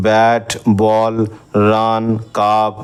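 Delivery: ব্যাট, বল, রান, কাপ spoken slowly, each word set apart; teacher spells out ব্যাট বল রান কাপ slowly; slow word demo. Shown as a demonstration. Teacher to Bengali students, slow clear word demo. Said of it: "সেগুলো হচ্ছে".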